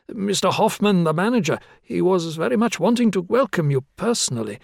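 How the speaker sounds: a hint of a flustered, apologetic young clerk; lightly voiced eager desk clerk.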